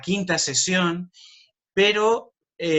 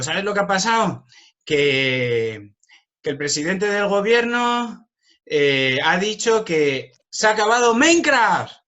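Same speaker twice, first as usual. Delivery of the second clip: higher, louder mock-shocked announcement; mock alarmed news; 4 semitones higher, 4 dB louder, slower than usual. Teacher to autistic pupil testing a joke, higher mock-alarmed voice. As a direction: ham up fake breaking news for the kid. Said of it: "cambio el tono de voz".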